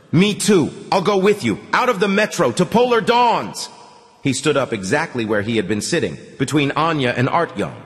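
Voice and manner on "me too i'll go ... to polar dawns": put-on high, louder squeaky boy; determined squeak. A narrator's reading. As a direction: squeak it out with resolve. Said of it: "He squeaked determinedly".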